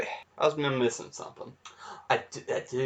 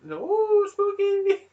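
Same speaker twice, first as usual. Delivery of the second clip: spooky voice; slower than usual. Acted. Spooky skit voice.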